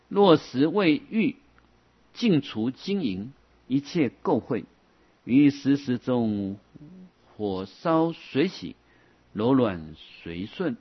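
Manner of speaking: slow, measured recitation with drawn-out syllables; deliberate, stretched classical recitation; scripture reading. Acted. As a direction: read the sutra out phrase by phrase. Reads out a quoted scripture.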